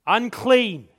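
loud, drawn-out warning call; leper's cry. A narrator's reading. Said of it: "It's the cry we hear".

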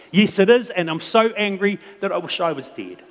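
high, loud sulky outburst; petulant child yelling back; pouting toddler. Acted. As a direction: throw a toddler tantrum. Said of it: "the pouting toddler responds".

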